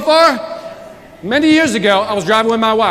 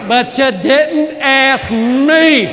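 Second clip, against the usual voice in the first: imitating wife; 4 dB louder, much slower than usual. Quoting wife's complaint.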